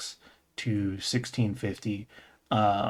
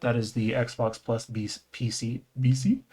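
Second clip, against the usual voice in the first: Arabic accent. Real, not acted. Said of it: "switched to my Arabic accent".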